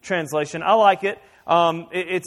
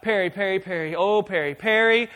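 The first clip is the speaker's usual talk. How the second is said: pestering husband; 2 semitones higher, 6 dB louder than usual. Retold or imitated. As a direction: nag her name again and again until it peaks in a yell. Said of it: "I wouldn't just be like".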